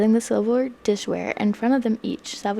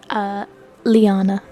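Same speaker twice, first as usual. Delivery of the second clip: gruff voice; 5 dB louder, slower than usual. Acted. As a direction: growl the name gruffly. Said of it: "His voice gruff".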